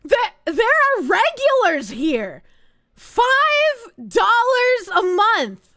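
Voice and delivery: loud, slow, drawn-out complaint; exasperated rant. Real, not acted. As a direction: hammer each word out. Ranting at viewers about subs.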